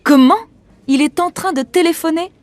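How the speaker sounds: can't believe he's on the phone; indignant disbelief. Acted. Director learns actor is on phone, indignant.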